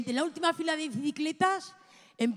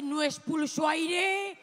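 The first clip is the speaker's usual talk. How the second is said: mock determined shout. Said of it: "metí tripa y dije".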